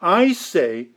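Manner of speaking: emphatic "I say", set apart by pauses. Shown as a demonstration. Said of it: "The emphatic".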